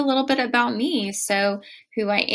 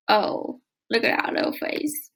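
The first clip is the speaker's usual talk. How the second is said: puppy dog voice. Real, not acted. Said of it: "that's my puppy dog voice".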